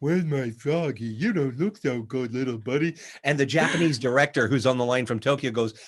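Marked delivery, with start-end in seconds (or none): 0.0-3.0 big, dumb, dopey cartoon cat voice. Retelling a voice audition for a big, fat, dumb cat: dumb cat voice. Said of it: "that stupid voice".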